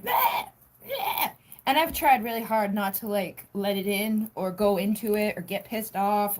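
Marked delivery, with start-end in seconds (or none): 0.0-1.3 high, shouted bleh-bleh grumble; mimicking volatile energy with a mock shouted bleh; mock cranky bleh. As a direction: spit it out like bad energy. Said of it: "energy that's like".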